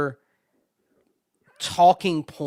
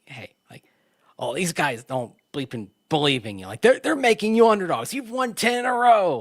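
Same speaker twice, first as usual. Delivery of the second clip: loose coach impression, rising pep talk; Sean Payton voice; 4 semitones higher, 3 dB louder than usual. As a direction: fire up the team like a coach. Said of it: "I can't do a Sean Payton".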